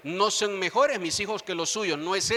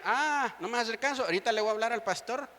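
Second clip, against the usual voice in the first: higher-pitched exasperated parent act; mock parental threat; 5 semitones higher than usual. Parent threatening to call the pastor, mock exasperation. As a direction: put on a parent threatening to tell on the child.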